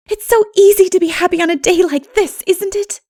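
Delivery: put-on high, delighted girl's voice; joyful girlish exclamation; happy Anne. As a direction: gush about the lovely day. Anne's voice, happy picnic.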